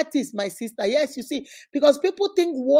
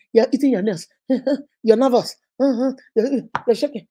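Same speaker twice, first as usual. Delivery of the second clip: teasing laugh; 5 dB louder than usual. Acted. Mocking a nervous spouse.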